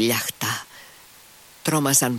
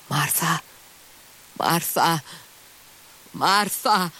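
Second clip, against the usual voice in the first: strange moan-like calling, rising higher each time; 7 semitones higher, much slower than usual. A narrator's reading. Injured husband calling his wife in the dark, moaning and higher. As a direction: draw each name out like a groan, climbing higher. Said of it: "με μια παράξενη φωνή που έμοιαζε με βόγκο".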